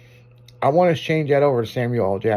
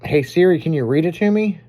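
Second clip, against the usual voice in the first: higher, louder command voice; addressing voice assistant; 4 semitones higher, 4 dB louder than usual. Real, not acted. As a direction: speak up clearly for the phone. Asking the phone's voice assistant.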